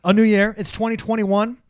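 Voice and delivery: rough, strained voice after screaming; hoarse voice. Real, not acted. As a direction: talk through a worn-out throat. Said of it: "why do you sound like you've been crying?".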